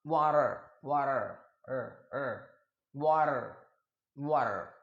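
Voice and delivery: वाटर with flapped r, "waa-ra"; American pronunciation. Shown as a demonstration. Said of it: "जैसे". (American उच्चारण में वाटर)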